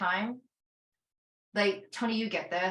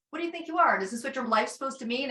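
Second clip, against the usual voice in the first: mocking inner critic; 5 semitones higher, faster than usual. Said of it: "I was like".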